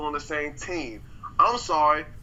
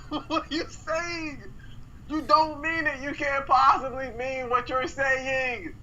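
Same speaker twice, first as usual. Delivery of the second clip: laughing disbelief; 6 semitones higher, slower than usual. Real, not acted. Disbelief at friend's take.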